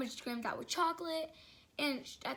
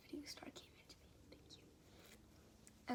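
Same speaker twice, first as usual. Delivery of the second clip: very soft, whispered aside; hushed little murmur under the story; 3 semitones higher, 15 dB quieter than usual. Real, not acted. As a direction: drop right down into a whisper.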